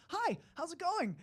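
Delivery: high, drawn-out hello; hammed-up greeting. Guy going up to girls in bars, hammed-up high greeting. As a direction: pitch it way up and stretch the greeting. Acting his bar approach to girls.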